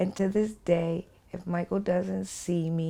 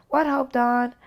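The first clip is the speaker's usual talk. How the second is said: high, louder lilting reply; Michael's sing-song; 7 semitones higher, 5 dB louder than usual. Retold or imitated. Michael answering her on the phone, high and sing-song. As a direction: answer in a playful tune. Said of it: "has a way of sing-songing".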